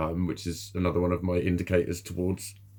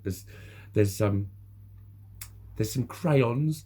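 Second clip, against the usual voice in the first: patronising teacher; 3 semitones higher, slower than usual. Retold or imitated. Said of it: "then she went".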